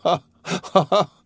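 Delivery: high frightful demonic laughter; a mad mother's demonic cackle. A narrator's reading. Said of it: "a frightful demonic laugh".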